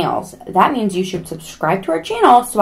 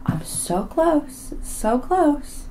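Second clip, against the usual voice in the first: high, drawn-out little plea; small high voice; 8 semitones higher, 5 dB quieter, much slower than usual. Pretend. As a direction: squeak it softly and slowly, wistful. Playful plea for more subscribers.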